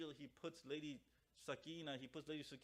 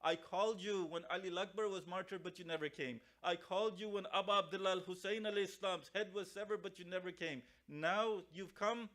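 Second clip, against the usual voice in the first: retold tearful lament; 3 semitones higher, 4 dB louder than usual. Zainab to the father who never came, tearful lament. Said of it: "When she starts to cry".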